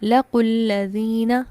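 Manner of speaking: लकुल्लज़ीना said slowly, short u, doubled lam; correct reading. Shown as a demonstration. Teacher gives students the correct joined reading, slow. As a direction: drop the long vowel, press the double l in लकुल्लज़ीना. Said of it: "लफ्ज़ क्या पढ़ा?".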